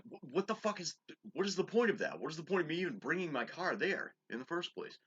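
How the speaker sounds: exasperated retort. Retold or imitated. Retold heated reply to mother.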